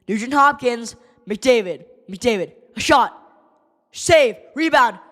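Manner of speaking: rapid call of the play; name each player as they touch it; excited fan commentary; live play-by-play. Acted. Calls play-by-play.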